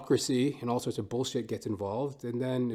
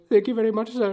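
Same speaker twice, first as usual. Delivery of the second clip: put-on much higher, louder, fast Indian-accented cashier; imitated Indian accent; 10 semitones higher, 8 dB louder, faster than usual. Cashier calling the next customer in a hammy Indian accent. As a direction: rattle it off high and quick in a put-on Indian accent. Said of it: "And he goes".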